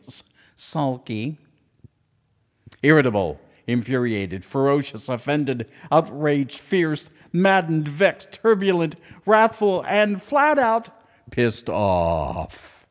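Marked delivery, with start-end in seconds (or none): 2.8-12.9 words grow louder and higher toward a furious peak; building angry list. Acted. Host piling up angry words, building to a mock rage. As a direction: let the anger climb with each word until you nearly shout.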